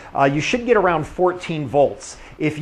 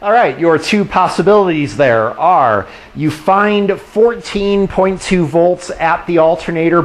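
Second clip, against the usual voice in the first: raised voice over a running engine; shouting over engine; 4 semitones higher than usual. Real, not acted. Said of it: "sorry for talking over the engine".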